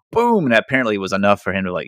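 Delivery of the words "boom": very high exclaimed boom; hammed-up triumphant boom; mock triumph. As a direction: pop it out in triumph. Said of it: "And he's like".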